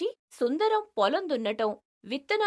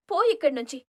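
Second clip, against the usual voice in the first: angry dismissal; 5 semitones higher than usual. Acted. Rupavathi rejects him angrily.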